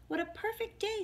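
high, delighted storybook hedgehog; pleased little hedgehog, high voice; smiling. A narrator's reading. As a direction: say it with a smile, pitched well up. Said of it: "smiled little hedgehog".

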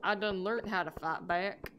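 folksy put-on accent, lightly done; put-on drawling accent. Gamer repeating a viewer's comment, put-on folksy accent. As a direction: read it in a homespun put-on accent. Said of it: "the accent I read that in".

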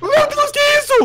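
high, slow gasp of disbelief; startled and stretched out; alarmed high exclamation; shocked. Real, not acted. Sees something strange in game.

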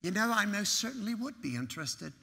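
imitated British accent, politely formal; mock-British courteous reply; pronounced British accent. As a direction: put on a proper British accent. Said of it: "he had this pronounced accent".

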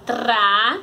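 "tra" held as a separate syllable; sílaba isolada. Shown as a demonstration. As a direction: set "tra" apart, drawn out. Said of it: "Vai ficar na pri". ("tra" como sílaba isolada)

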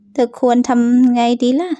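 slow, teasing question; a slow mocking jab at the trapped classmate; slow taunt. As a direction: drag it out to savour her trouble. Taunting the accused girl.

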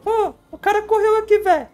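squeaky dub of a panicked gamer; dubbing voice. Acted. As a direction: voice the running guy like a game dub. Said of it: "Ó, tá vendo a dublagem, galera?".

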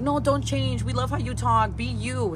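high, loud pleas quoted from others; emphatic urging. Retold or imitated. Quoting people urging her not to change.

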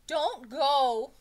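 high, loud, stretched-out plea; wailing schoolboy appeal; begging. A narrator's reading. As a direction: beg the teacher desperately. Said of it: "begged Jason".

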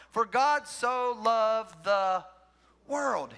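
slow, stretched-out recital; drawn out verse. Shown as a demonstration. Pastor draws out the verse for emphasis, very slowly. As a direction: stretch every word of the verse.

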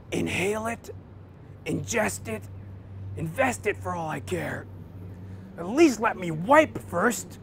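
a different, put-on patient voice, last line slow; patient snaps back at the nurse; grumpy patient. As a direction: grumble it like a fed-up patient.

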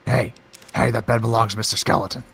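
a lightly put-on British accent, teasing; playful Cockney-tinged voice guarding the skeleton; mock British accent. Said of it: "through your change of accent".

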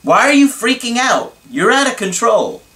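yelled. Retold or imitated. Boyfriend yelling back at anxious girlfriend, mock shout. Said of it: "He yelled".

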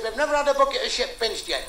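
imitated Welsh woman's voice; put-on Welsh lilt; mock Welsh accent. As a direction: mimic a Welsh wife lightly. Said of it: "What kind of people talk like that?".

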